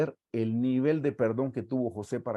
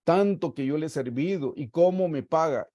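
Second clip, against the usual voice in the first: raised, aggrieved complaining voice; hurt complaint; 4 semitones higher than usual. Acted. Preacher voicing a hurt believer, aggrieved and complaining. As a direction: whine about being wronged.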